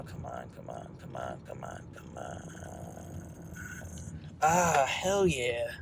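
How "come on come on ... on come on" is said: low whispered chant of hope; will the spot to stay free; whispered pleading. Real, not acted. Hoping for a parking spot.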